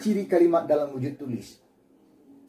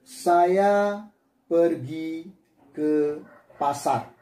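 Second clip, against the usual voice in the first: slow, spaced reading of a sample sentence; slow example sentence for the class; dictating example; much slower than usual. Shown as a demonstration. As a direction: read it out word by word like dictation. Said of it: "kalimat yang saya tulis ini".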